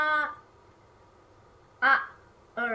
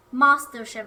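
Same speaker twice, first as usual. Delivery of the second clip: proud announcement; 10 dB louder than usual. Pretend. Boasting as the master.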